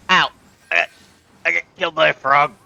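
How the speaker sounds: indignant yell. Real, not acted. Outraged at dying to frog.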